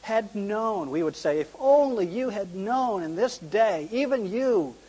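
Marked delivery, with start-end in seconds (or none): 0.0-0.9 higher, slow, pleading lament; imitating tearful lament. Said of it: "why he was crying". 1.4-4.8 higher, slow, drawn-out lament; imitating tearful lament. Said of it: "why he was crying".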